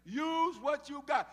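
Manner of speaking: loud, high, very slow stress on every word; emphatic command. Shown as a demonstration. Preacher drilling the lesson into the congregation, slow loud emphasis. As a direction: stretch out Use what you got and punch each word. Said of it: "Tell your neighbor".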